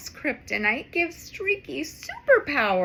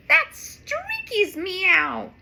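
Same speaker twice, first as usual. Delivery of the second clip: worried; 7 semitones higher, 5 dB louder, slower than usual. Acted. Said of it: "she says, worried".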